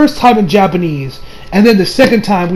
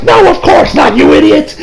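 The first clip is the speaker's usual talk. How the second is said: high, raised mock yell; imitated exasperated scolding; indignant retort; 8 semitones higher, 4 dB louder than usual. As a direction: snap back at a fool, pitched way up. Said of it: "He's like".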